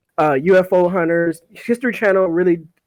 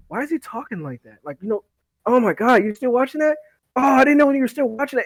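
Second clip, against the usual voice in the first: lightly voiced annoyed complainer, pitched higher; Janae; 7 semitones higher than usual. Teller imitating housemate annoyed by his ghost show, lightly higher voice. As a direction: imitate someone bothered by the TV. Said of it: "then Janae will go".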